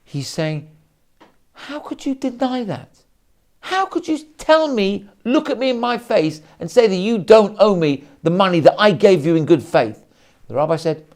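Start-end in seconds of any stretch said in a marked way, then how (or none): 1.7-10.0 upset reproach. Acted. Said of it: "getting really upset".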